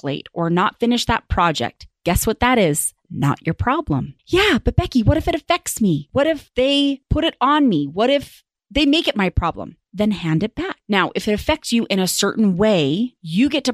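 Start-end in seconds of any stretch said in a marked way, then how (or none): 4.3-9.8 higher-pitched mock protest; worried objection. Listener objecting to the coach's advice, worried protest. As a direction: voice an anxious listener's pushback.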